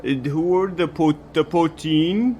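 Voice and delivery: put-on Canadian-accented poutine courier; polite Canadian accent, hesitant. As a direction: apologize in a Canadian accent, rounded "sorry". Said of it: "I picked up your accent".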